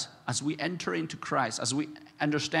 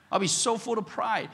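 imagined proud king, higher and louder; mock fury; 5 semitones higher, 4 dB louder than usual. Preacher imagining himself as King David, indignant. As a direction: pretend to be an offended king. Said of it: "I would be so furious".

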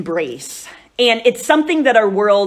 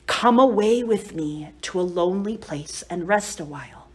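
a little softer and lower, unhurried; gentle invitation; 3 semitones lower, 4 dB quieter than usual. Retold or imitated. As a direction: offer Christ's words tenderly to each listener. He's saying that to you.

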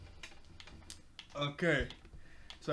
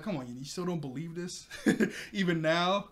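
laughing disbelief; 2 semitones higher, 3 dB louder than usual. Real, not acted. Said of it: "it was just kinda funny".

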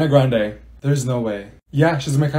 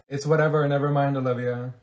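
ordinary talk

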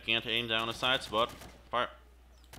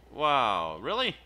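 exasperated disbelief; 2 semitones higher, 7 dB louder, slower than usual. Real, not acted. Grenade fails, exasperated gamer.

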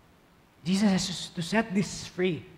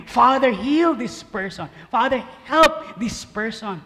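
imagined prayer; 3 semitones higher, 4 dB louder than usual. Retold or imitated. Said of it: "It's like he was praying".

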